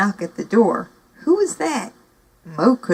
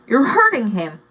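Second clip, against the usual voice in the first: voice shaking; 4 semitones higher, 4 dB louder than usual. Acted. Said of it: "although her voice shook".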